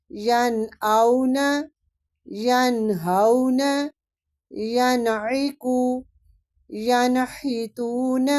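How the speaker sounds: slow recitation, nun sounded clearly; tajweed recitation. Shown as a demonstration. Teacher recites izhar examples for students, slow and melodic. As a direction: draw out each word like Quran recitation. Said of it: "ہم نے یہاں پہ اظہار کیا ہے".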